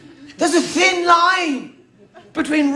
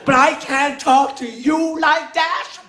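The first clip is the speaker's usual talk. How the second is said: put-on Traveller accent. Comedian turns the racist charge back on the lads in their accent. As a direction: land it in a Traveller accent with mock outrage. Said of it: "answered them in their accent".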